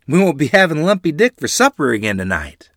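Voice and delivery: put-on a boy thrilled about a better supper; excited boy. A narrator's reading.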